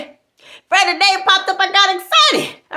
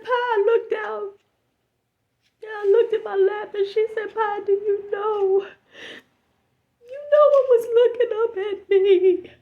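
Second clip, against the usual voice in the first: tearful; 3 semitones higher than usual. Retold or imitated. Friend tearful.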